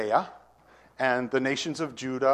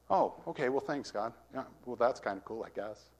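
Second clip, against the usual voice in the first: half-hearted thanks; 6 dB quieter than usual. Acted. Voicing an unenthused believer.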